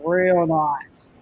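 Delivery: long, drawn-out "real" in an Australian surf saying; imitated surfer's catchphrase. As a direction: stretch it out slowly in laid-back approval. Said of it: "a bit of an Australian saying".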